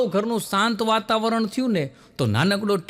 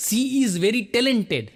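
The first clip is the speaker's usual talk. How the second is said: slow English praise; 2 semitones higher, much slower than usual. Retold or imitated. Foreigners praising the bride.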